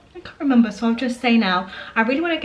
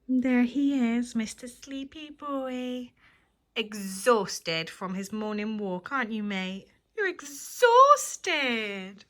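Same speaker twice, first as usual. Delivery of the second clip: soft cooing to dog; 4 dB quieter, slower than usual. Real, not acted.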